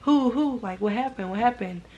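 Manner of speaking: feigned puzzlement, starting high; acting dumb. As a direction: imitate coworkers playing clueless, pitch jumping up at first. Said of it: "everybody all acting dumb".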